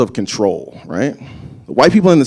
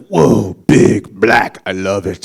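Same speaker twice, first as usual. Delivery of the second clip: put-on baby's delight; 4 semitones lower, much slower than usual. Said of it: "they're just like".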